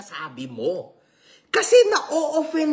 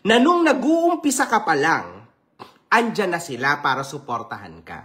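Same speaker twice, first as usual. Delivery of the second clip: serious now; 7 semitones lower than usual. Real, not acted. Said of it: "seryoso na ulit ako".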